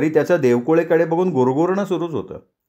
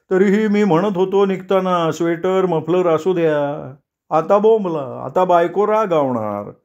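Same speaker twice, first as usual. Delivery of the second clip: higher, fretful grumble; Deshpande muttering; 4 semitones higher than usual. Acted. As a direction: moan about the scolding wife to come. (उंच, कुरकुरती पुटपुट)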